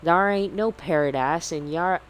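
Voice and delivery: hammed-up pirate with a Southern twang. Captain Black taunting Captain Allegra, as a Southern pirate. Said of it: "Southern pirate".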